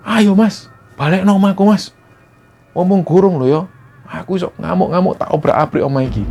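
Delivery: menacing ghost father. Acted. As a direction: demand like a wrathful ghost. Ghost father threatens Erwin.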